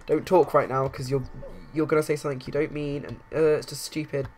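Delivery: loud, firm telling-off; stern warning. Acted. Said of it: "given her the side eye".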